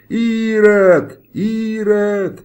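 high, loud accusing yell, repeated; crowd shouting. A narrator's reading. The whole square shouts at the executioner, loud accusing yell. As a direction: hurl the word at him. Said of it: "закричали осужденные на смерть".

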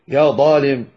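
"يا ظالم" with an emphatic d for the ظ; heavy d mistake. Shown as a demonstration. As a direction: demonstrate "ظالم" as a thickened dalem. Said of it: "ينطقها دالا مفخمة".

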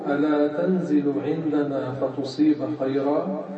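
deliberate slow recitation of the example; slow example reading. Shown as a demonstration. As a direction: read it slowly, word by word. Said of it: "نحو". (قراءة بطيئة متأنية للمثال)

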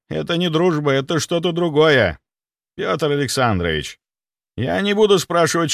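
high, anxious middle-aged doctor voice; panicking clinic head. Acted. Clinic head panicking to the doctor, high and anxious.

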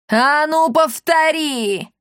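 high, loud, slow bark; furious roar at the elder; barking threat. A narrator's reading. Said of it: "рявкнула она".

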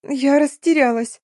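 a lightly voiced whimper. Girl answering her scolding friend, mild whimper. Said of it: "проскулила я в ответ".

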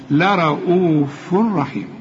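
Quran recitation. Shown as a demonstration.

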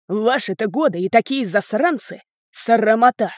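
father scolding them while driving off; fierce growl. Acted. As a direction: snarl the reproach. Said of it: "прорычал он свирепо".

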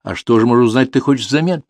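put-on teasing old dealer asking; old junk dealer voice.

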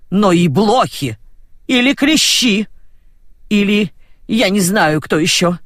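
high, sing-song mimicry of the old village woman; mocking the in-law. Roza mocks the other grandmother's intonation. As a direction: parrot her rival's whining tune. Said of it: "передразнила интонацию сватьи".

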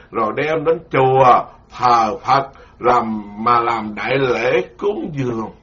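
slow, measured scripture reading; sutra reading. Acted. Monk reads scripture to listeners, slow and measured. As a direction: read the sutra text slowly to the congregation.

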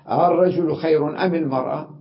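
long "آه" then a rising "الرجل خير أم المرأة؟"; questioning madda. Shown as a demonstration. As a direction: stretch the "آه" and ask. (سؤال بمد "آه")

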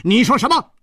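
high, loud startled question; shocked outburst. A narrator's reading. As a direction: blurt it out in alarm. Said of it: "他失声说".

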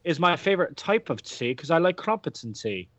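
a lightly put-on British accent, barely different; hammed-up British accent, quickly dropped; bad British accent. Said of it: "God, I'm so bad at accents".

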